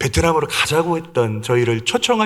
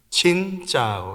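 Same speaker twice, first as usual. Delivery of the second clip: 신 held flat, 짜오 dropping down; 3 semitones higher, 4 dB quieter than usual. Teaching a vietnamese greeting: level 신, falling 짜오. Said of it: "신은 평성조고 짜오는 밑으로 내리는 거예요".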